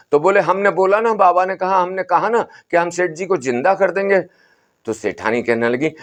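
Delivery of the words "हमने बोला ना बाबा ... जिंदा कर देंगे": lightly raised, soothing holy man; a hint of an old sadhu calming the family; Baba's voice. बाबा दोहराता. (बाबा की हल्की ऊँची, समझाती आवाज़)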